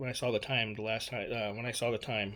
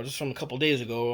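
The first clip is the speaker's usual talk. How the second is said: ordinary talk, nothing marked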